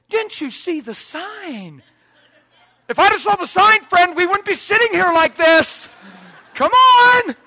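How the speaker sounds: hammed-up road-rage rant; mock angry driver. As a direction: scold them like an indignant driver. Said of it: "we run up to 'em and say".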